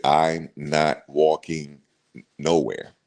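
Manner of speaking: drawn-out stubborn no; slow flat refusal. Retold or imitated. Telling the guide she won't climb, slow and stubborn. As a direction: drag every word out, digging in.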